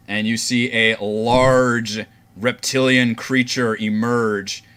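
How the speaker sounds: slow, emphatic monster reveal; dramatic game master narration. Acted. Game master reveals the reptilian creature to players, slow dramatic narration. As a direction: build the creature's entrance with deliberate pauses.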